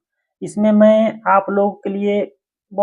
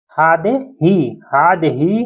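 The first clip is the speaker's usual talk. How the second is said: slow demo word; much slower than usual. Shown as a demonstration.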